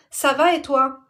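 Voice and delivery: mock her curt answer; mocking quote.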